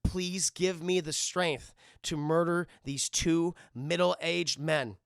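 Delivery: slow, deliberate plea to the heavens; mock prayer. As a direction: pray slowly with mock solemnity. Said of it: "he starts praying to Jesus".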